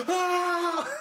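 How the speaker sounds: high, sustained mock shriek; angry robot scream. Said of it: "And he's mad. He's like".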